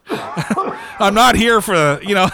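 words spilling through a laugh; very slow, broken up by laughter. Real, not acted. Laughing at his own story.

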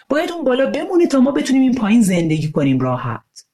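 a mean kid mocking a classmate; bully boy's sneer. Bully boy mocking the disabled classmate, sneering.

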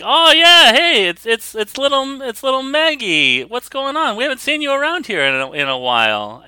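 high, hammed-up Boston dad; Bostonian accent. Dad greets little Maggie in his store, Bostonian accent. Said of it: "and Mike is like".

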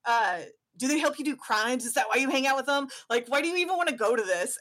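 fast, rising scornful tirade; ranting dad. Acted. Dad ranting at his son about his weirdo friends, scornful. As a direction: tear into the kid's friends. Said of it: "him going".

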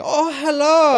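put-on high, loud caricatured Asian accent; mock Asian accent. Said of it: "like, an Asian accent".

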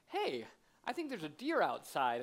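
lightly voiced commercial husband, smooth and unhurried; a hint of a suave husband in a Christmas advert. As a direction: play the advert dad casually springing a surprise. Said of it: "there's that husband who goes".

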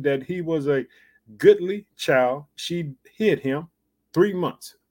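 measured King James reading; scripture reading. Acted. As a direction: read the verse deliberately to the congregation. Preacher reads the scripture aloud.

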